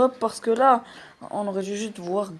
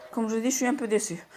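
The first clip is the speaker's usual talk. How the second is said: slightly winded, breathy end; talking short of breath; 5 dB quieter, faster than usual. Real, not acted. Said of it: "Oh, je suis essoufflé".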